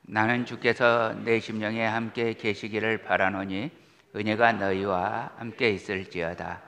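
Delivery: measured, solemn Bible reading; calm liturgical reading voice; scripture reading. Acted. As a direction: read the epistle steadily to the congregation. Reads scripture aloud.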